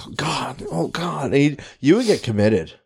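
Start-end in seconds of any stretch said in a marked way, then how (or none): 0.1-1.3 anguished moan. Pretend. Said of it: "you just be like".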